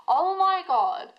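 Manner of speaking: stunned, pitch jumping up; overwhelmed by the reading; real outburst, high and slow. Real, not acted. Reader reacts to the cards in a high, stunned outcry. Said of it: "I am furious for you".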